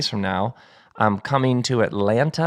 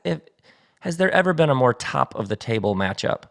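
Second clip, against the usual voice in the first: ordinary delivery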